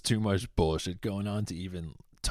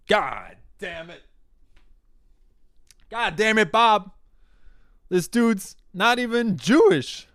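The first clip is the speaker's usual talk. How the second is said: high, loud cartoon panic voice; mock Hamas militant; 11 dB louder than usual. Hamas fighter realizing the hostages aren't Israeli, high squealing panic. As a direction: squeal it like a flustered terrorist. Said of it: "Hamas realized ... and are like".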